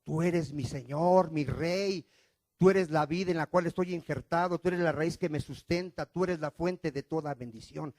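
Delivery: hushed devotion to the Lord; worshipful prayer. Shown as a demonstration. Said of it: "Así deberían de decirle a Cristo".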